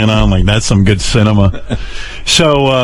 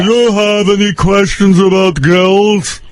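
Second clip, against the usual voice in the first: put-on father's Eastern European accent, higher and slow, every word over-pronounced; over-enunciating father; 9 semitones higher, slower than usual. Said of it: "he tries to correct his accent by over-enunciating".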